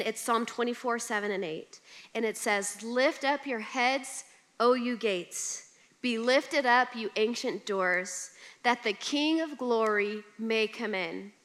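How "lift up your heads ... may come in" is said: scripture reading. Acted. Reciting scripture slowly.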